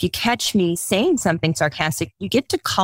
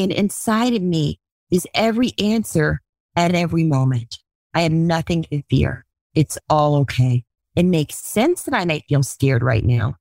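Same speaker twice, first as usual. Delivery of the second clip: guided calming self-talk; 2 semitones lower than usual. Acted.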